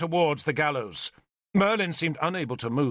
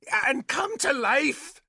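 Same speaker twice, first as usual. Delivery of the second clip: high, slow, combative retort; belligerent; 12 semitones higher, slower than usual. A narrator's reading. Nimue retorting to Arthur's question, belligerent. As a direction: throw it back as a challenge. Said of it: "Nimue said belligerently".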